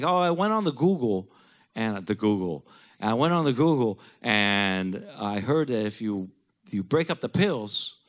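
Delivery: high, loud impression of dad; imitated eager father. Dad telling his son about the Google, high mock-eager voice.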